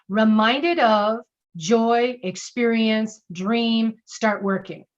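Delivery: each key word pulled out and stressed; highlighted key words. Shown as a demonstration. Coach listing words to highlight, each stressed. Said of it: "I highlight a few of the words".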